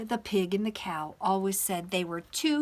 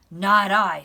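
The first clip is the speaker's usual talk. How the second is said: loud, emphatic refusal; storybook cow; 13 dB louder than usual. A narrator's reading. Cow refusing to help the hen, loud. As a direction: call it out as a cow. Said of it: "said the cow".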